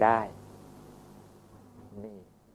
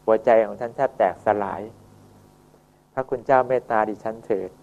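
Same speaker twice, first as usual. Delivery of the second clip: earnest pleading. Acted. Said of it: "เขาก็จะขอร้องอย่างนี้".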